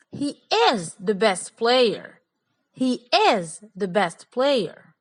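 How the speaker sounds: slow, each word pressed; emphatic, slow. Shown as a demonstration. Teacher showing emphasis to students. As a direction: say it slowly, stressing "is" firmly. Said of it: "I was emphasizing my points".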